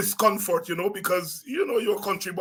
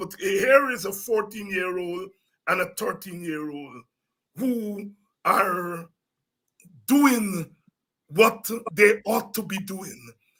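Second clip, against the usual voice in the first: tearful voice, on the verge of tears. Speaking with another speaker about young parents, tearing up. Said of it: "I am I am tearing up".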